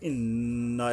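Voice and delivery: ইন্না with a long humming n; nasal ghunnah. Shown as a demonstration. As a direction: hold the double n of ইন্না in the nose. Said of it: "নুনের উপরে গুণনা করতে হবে". (ইন্না গুন্নাহ করে)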